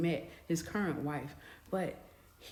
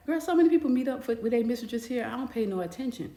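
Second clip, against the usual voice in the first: sassy waitress; 5 semitones higher, faster than usual. Retold or imitated. Waitress shrugging off a customer's question, sassy and dismissive. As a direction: brush her off like a jaded waitress.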